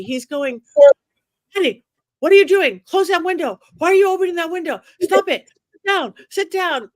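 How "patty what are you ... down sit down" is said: high, loud retold yell at her. Telling the interviewer how Zach shouted at her by the window, retold yell. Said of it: "Zach is yelling at me".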